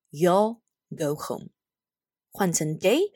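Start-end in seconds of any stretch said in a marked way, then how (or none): 0.1-1.5 slow "You'll" with a clear final L; slow model reading. Shown as a demonstration. Teacher drilling the contraction "You'll". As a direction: drill it slowly. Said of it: "就会变成".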